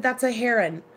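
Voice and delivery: "heron" pronounced HAIR-un; HAIR-un for "heron", second syllable reduced; friend's HAIR-un pronunciation. Retold or imitated. Friend correcting the speaker, "heron" pronounced HAIR-un. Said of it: "She said".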